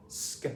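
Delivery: Sk as one quick hissed blend; bare phonics Sk; blended consonant sound. Shown as a demonstration. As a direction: run s straight into k with no vowel. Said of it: "to make a sk sound".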